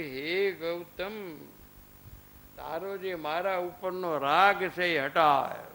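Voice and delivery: very slow, calm words of a master; gentle counsel. Acted. Mahavir gently tells his disciple to let go, slow and calm. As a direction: lay it down slowly and tenderly, like a teacher to his disciple.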